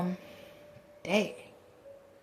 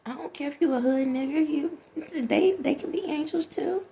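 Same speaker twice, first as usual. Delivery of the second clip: laughing; 7 semitones higher than usual. Real, not acted.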